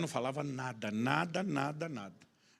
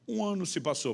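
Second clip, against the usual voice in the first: ordinary delivery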